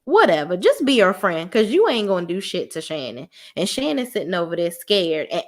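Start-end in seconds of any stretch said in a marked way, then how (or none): 0.0-3.3 dismissive. Retold or imitated. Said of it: "I'm like".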